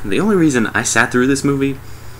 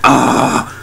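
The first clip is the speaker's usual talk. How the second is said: mock groaning cry; 2 semitones higher, 3 dB louder than usual. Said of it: "It's all like".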